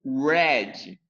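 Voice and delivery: "red" with an English r at the start; correct red. Shown as a demonstration. Teacher shows pupils how "red" is said. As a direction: say "red" with the English r, not the Portuguese rasp. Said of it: "O comando aqui é falar".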